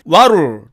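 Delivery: "what'll" as "waru" with a tapped t; contracted what'll. Shown as a demonstration. Teacher showing what will shortened, contracted. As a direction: flap the t in "what'll", L left open. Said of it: "줄여서 발음하면".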